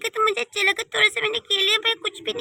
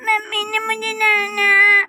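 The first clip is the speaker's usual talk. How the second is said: put-on crying child; 4 dB louder, slower than usual. Child cries after being scolded.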